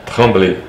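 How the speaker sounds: Tremblay quickly, with French R and short final é; French pronunciation. Shown as a demonstration. French name, then Portuguese reading.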